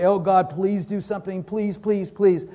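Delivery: whiny pleading prayer, pitch climbing on please; mock pleading. Preacher mocking a begging prayer, pleading. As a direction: beg God like a desperate child. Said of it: "That's begging".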